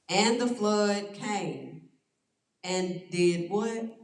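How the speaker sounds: slow, leading question to the class; slow teaching prompt. Shown as a demonstration. Pastor slowly prompting the group to finish the verse. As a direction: drag it out so they finish it. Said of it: "prompts the group to answer".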